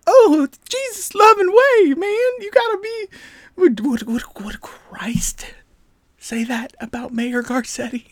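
mock preachy Christian. Mocking a preachy Christian critic, squeaky high. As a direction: parody a scolding churchgoer. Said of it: "these are things... aren't".

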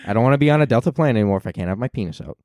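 fast, lightly voiced pundit rant; a hint of a fast-talking debater; Ben Shapiro voice. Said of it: "I haven't done my Ben voice".

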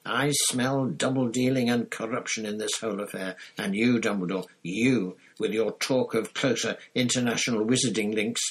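loud, high-pitched accusing tirade; bellowed outrage. A narrator's reading. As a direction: livid ranting, hammering out each accusation. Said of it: "he bellowed".

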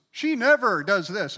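slow, loud stress on "never"; exaggerated accusing "never"; mocking absolute. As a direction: lean hard and slow on "never". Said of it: "we teach our kids, don't use absolutes".

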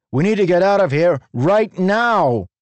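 high, loud angry shout. A narrator's reading. Human woman shouting up at Leshwi in anger. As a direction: yell it at the hovering fused.

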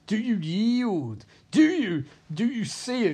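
high, drawn-out mock taunting; hammed-up villain demand. Villain demanding his beaten rival yield, high mock taunt. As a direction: stretch "yield", push the pitch up high.

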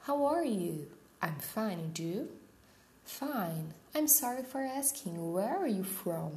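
slow, careful reading of both parts; dialogue reading. Shown as a demonstration. Teacher reading a café dialogue to her class, slow and careful. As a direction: act out both sides of the café chat.

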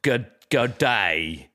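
halting American stab at Australian "g'day"; American doing Australian accent. Acted. Americans retrying after correction, mock Australian accent. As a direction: fumble the Australian greeting like an American. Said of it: "And they're like".

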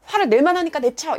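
loud, high mock retort; heated imagined rejoinder; angry comeback. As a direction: act out firing back in a quarrel. Imagined angry comeback in parking quarrel.

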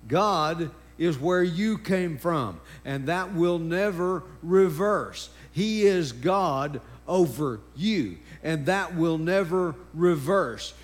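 slow, deliberate sermon cadence with punched words; emphatic preaching. Real, not acted. Preacher warns congregation the role never reverses, emphatic preaching. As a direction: drive each phrase home firmly.

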